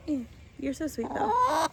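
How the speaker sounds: cooing to the hen, jumping high on "though". Real, not acted. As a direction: sweet-talk the chicken. Cooing to her pet chicken.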